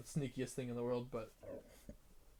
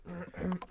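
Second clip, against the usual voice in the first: throat clearing; 7 semitones higher than usual. Acted. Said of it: "a little frog in your throat".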